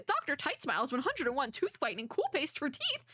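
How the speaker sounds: lightly hammed-up commercial pitch; ad read. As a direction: pitch it like a product ad, a bit high. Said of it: "here we go with the ad".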